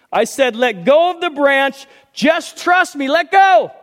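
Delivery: lightly voiced God repeating the order; insistent calm voice. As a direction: insist patiently.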